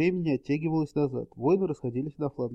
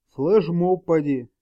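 gnome voice; 3 semitones higher, 7 dB louder, slower than usual. A narrator's reading. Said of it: "предположил гном".

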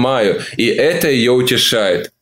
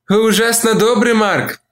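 gentle woman; 8 semitones higher than usual. A narrator's reading. Olivia softening.

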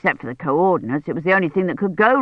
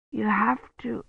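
weak feverish murmur; 4 semitones higher, 8 dB quieter than usual. Acted.

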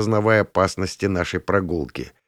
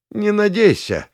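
much higher, defiant cry; exclaimed; 12 semitones higher than usual. A narrator's reading. Dorish defies the narrator's threat with a stubborn cry. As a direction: fling it back stubbornly. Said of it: "воскликнула Дориш".

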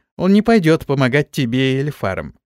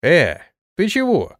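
indignant; 4 semitones higher than usual. A narrator's reading. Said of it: "возмутился я".

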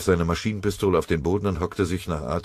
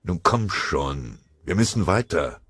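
slow, calm coaxing; gentle, not sharp. Acted. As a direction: ease him along like a comrade. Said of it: "Ohne einen scharfen Ton anzuschlagen".

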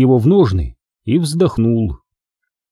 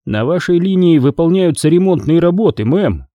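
apologetic; 4 semitones higher than usual. Acted. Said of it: "извиняющимся тоном".

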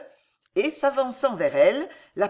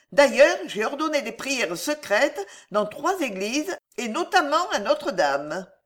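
plaintive, solicitous mother, often pitched higher; a hint of a melancholic, worried mother; lightly voiced queen mother, anxious; 4 semitones higher than usual. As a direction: fuss over a son's health with put-on concern. Catherine plays anxious mother to king.

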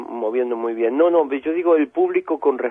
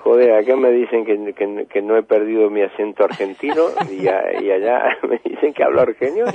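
louder, amused, laughing through the line; 5 dB louder than usual. Real, not acted. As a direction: laugh off the accent mix-up. Amused at accent being questioned. (riendo, más fuerte)

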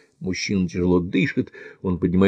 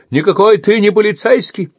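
furious shout; 12 semitones higher, 5 dB louder than usual. Acted. Andy screams at the attacker, furious shout. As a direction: yell the insult at him. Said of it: "кричит Энди".

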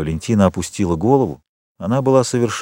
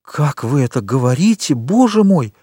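offended exclamation; 5 semitones higher than usual. Acted. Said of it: "воскликнула оскорблённая Валентина".

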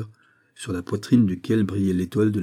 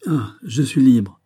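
slow, louder realisation; slow dawning relief; 4 semitones higher, 6 dB louder, slower than usual. Acted. The count realises the doors are open, slow and amazed. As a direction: let the freedom sink in word by word.

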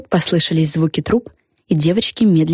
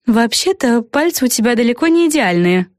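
a touch of a snort; 6 semitones higher than usual. A narrator's reading. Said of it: "фыркнула Флафанора".

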